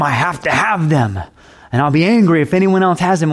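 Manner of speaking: a grasping voice that rises to a fast jealous outburst; selfish possessive lover. Retold or imitated. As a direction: play the possessive lover, building to an angry rush at the end. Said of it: "we have this strange idea of love".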